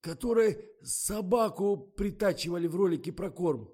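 high, loud, eager voice; animated. A narrator's reading. Misha perks up remembering the rope, animated. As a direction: pipe up with sudden excitement. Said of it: "оживился Миша".

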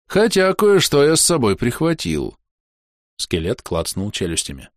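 a lightly voiced grim skeleton. Skeleton Anrul's long speech.

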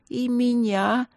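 fervent, drawn-out yes; eager agreement. A narrator's reading. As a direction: agree with warmth and zeal. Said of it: "горячо согласилась Винин".

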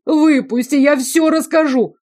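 high, loud desperate plea; pleading. A narrator's reading. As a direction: beg to be let out. Pleading from the cell. (высокая громкая мольба)

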